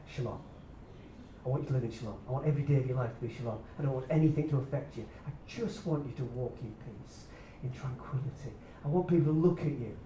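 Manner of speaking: soft, low, tender voice of God; God's gentle voice. Pretend. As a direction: speak it gently as God would. God voiced softly to listener.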